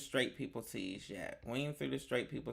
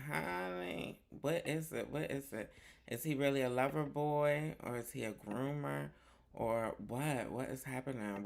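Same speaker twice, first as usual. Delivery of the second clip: lightly mimicked gossip. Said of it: "doing the impression".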